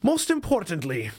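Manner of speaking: put-on light Caribbean accent. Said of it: "I'm gonna do my best to do a Caribbean accent".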